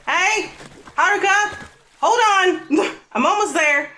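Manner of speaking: high, loud call across the water; high urgent calling out. Acted. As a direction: shout to her friend from the water, breathless. Friend calling out while swimming.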